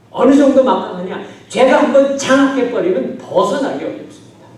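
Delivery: loud, high-pitched sermon delivery; forceful preaching. Real, not acted. Preacher warning of sin's power, forceful preaching. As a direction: drive the warning home at full voice.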